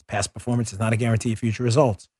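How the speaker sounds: rapid quiet fine print; fast legal disclaimer. Acted. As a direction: rattle off the disclaimer. Rushed disclaimer at ad end.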